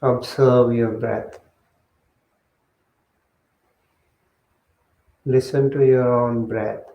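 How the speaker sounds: measured meditation guidance with long pauses; guided meditation. Real, not acted. Monk settling the group into breath meditation, guided meditation voice. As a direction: guide them step by step, leaving long silences.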